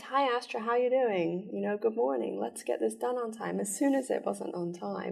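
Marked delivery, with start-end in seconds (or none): 0.0-3.6 higher, softer, sugary and friendly; butter her up before the storm; sweet morning greeting. Retold or imitated. Supervisor greeting Astra kindly in the morning, mock sweet voice. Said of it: "she would start off really nice".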